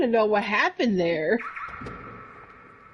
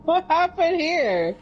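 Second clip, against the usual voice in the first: mock bewildered; 9 semitones higher than usual. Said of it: "I'm like".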